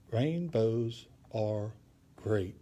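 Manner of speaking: slow, spaced "Rainbows are great", rain, bows apart; syllable by syllable. Shown as a demonstration. Teacher composes a colors poem, syllable by syllable. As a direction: give each syllable of "Rainbows are great" its own beat. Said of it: "a syllable is kinda like a beat".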